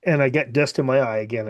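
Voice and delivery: pushing words through a tight throat; choked up voice. Real, not acted. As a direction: voice catching, half joking. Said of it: "it's also affecting your voice".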